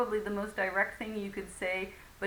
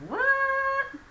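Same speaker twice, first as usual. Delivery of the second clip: very high and loud What?, almost shouted; rude, loud, high What?; loud indignant what; 8 dB louder than usual. Shown as a demonstration. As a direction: fire What? back in outrage. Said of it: "in a different tone".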